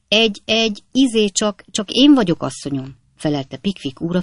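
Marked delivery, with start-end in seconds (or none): 0.1-2.9 higher, halting, embarrassed reply; flustered stammer. A narrator's reading. Pickwick answers the frightened lady from behind curtain, flustered. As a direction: stammer it out, dropping at the end.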